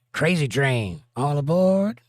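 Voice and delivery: high, loud "all aboard" call; mock rock shout. Host calls out a song intro to chat, loud. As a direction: belt it like the song intro. Quoting a singer's song intro.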